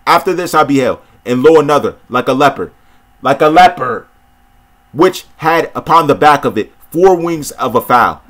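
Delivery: measured, solemn Bible reading; scripture reading. Acted. Preacher reading scripture to viewers, measured and solemn. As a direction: read the prophecy steadily, like from a pulpit.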